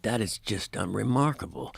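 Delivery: a hint of a deadpan impression, badly faked; Gene Simmons. Guest quotes the stunned rock star, soft mock impression. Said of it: "Impression of Gene Simmons is so bad".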